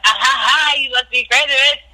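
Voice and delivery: hammed-up bellowing laugh with a sneer; retold bellowing laugh. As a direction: laugh in her face like she's ridiculous. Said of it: "it was like a bellowing".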